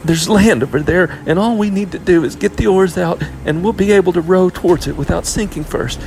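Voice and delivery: put-on high, loud angry girl; heated, high-pitched scolding; angry lashing out. A narrator's reading. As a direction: lash out at your little sister. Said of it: "she lashed out angrily at Murray".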